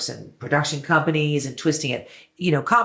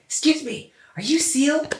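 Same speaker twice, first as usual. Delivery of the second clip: much higher, starstruck little voice; starstruck fan; 13 semitones higher than usual. Retold or imitated. Fan calling to a singer from her car, starstruck and high. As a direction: squeak it out like a nervous fan.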